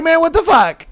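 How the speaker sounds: frustrated shout. Retold or imitated. Voicing deflated sender.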